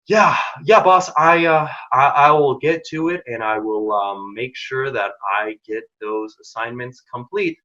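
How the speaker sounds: slow, hesitant reply to the boss; sluggish, halting demo of low urgency; really slow talker. Shown as a demonstration. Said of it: "talks really quickly or really slowly".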